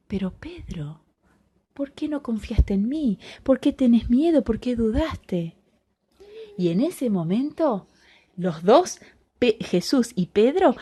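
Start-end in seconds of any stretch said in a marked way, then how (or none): 0.1-5.6 gentle rebuke. Acted. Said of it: "le dijo".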